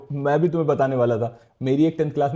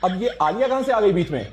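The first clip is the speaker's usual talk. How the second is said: higher-pitched irritated protest; mild yelling; 6 semitones higher than usual. Acted. Husband protesting to wife about Aliya, mildly yelling. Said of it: "तो चिल्ला क्यों रहे हो?".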